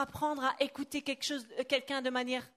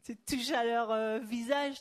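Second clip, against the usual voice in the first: light mock Italian accent in French. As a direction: imitate an Italian speaking French. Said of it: "un accent italien".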